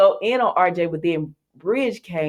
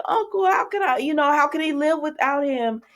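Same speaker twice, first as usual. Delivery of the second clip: imitating sad Zende; 9 semitones higher than usual. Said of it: "And he was just sad".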